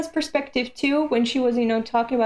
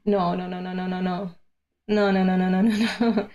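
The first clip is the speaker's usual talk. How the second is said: dreading; 5 semitones lower than usual. Real, not acted. Reader fearing a character died, pleading denial. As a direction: beg it not to be true.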